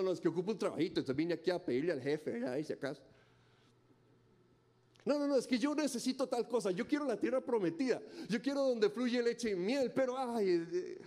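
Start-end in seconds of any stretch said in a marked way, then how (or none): 5.0-11.0 mock believer. Preacher voicing complaining believers.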